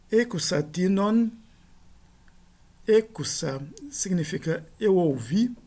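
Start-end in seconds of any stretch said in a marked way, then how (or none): 0.1-1.3 ecusatinon said slowly with each syllable clear; careful Greek demo. Shown as a demonstration. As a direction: model ecusatinon slowly for students. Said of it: "Terceiro exemplo". (ecusatinon pronunciado devagar)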